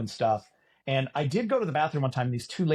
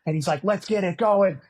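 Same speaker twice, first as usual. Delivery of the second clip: announcer hype; 3 semitones higher, 3 dB louder than usual. Retold or imitated. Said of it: "the voice, and he's giving you all the rules".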